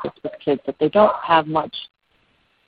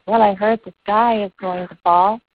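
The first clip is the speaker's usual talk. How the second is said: lightly voiced little bird, pitched higher; a hint of a small bird, higher; 5 semitones higher than usual. Little bird answering the elephant's question, lightly voiced higher. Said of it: "And the bird says".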